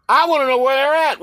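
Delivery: indignant and insistent; insistent demand. Real, not acted. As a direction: push it out high, demanding an answer. Insisting on an answer.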